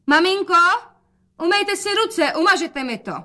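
bright call of an eager daughter; girlish voice. Acted.

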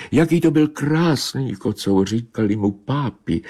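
high plaintive cat reminiscing; mournful she-cat. Acted. Narrator voices the she-cat. (vysoký, naříkavý kočičí hlas)

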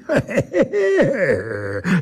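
high, scornful creature laugh; mocking laugh. A narrator's reading. Creature laughs at the narrator's threat, mocking. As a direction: laugh him off. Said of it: "Smál se ten chlap".

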